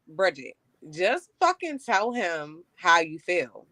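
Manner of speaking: slow, firm talking to herself; firm self-talk. Retold or imitated. Telling herself to speak up, slow and firm. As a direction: give yourself a stern push. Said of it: "to be like".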